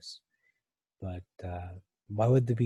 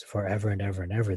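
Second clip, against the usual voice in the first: quick read; faster than usual. Shown as a demonstration. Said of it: "There are three tenses here".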